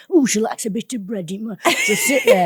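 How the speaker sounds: high northern grandma voice, laughing; imitating grandma. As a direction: giggle through a grandma impression. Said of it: "You're right, Grandma".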